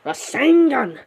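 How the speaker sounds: half-scream, pitched well up; mild scream. Acted. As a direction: call out the attack name high, stretching the middle. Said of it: "Naruto begins to scream".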